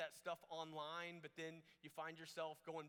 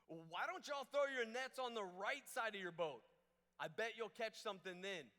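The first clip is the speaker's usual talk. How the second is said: high, loud holler from the shore; hammed-up long-distance yell, pitched up; calling out; 5 semitones higher, 6 dB louder than usual. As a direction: shout advice out to the boat. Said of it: "Someone yells out from the shore".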